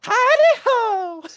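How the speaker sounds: very high, slow hammy cowboy howdy. Retold or imitated. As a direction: holler it like a cartoon cowboy. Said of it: "talk like a cowboy".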